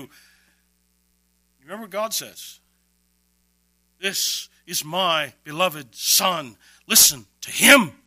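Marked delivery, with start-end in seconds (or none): 4.0-8.0 slow, then louder on listen to him; booming divine voice. Acted. God speaking from the cloud, slow and booming. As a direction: let the voice from heaven ring out.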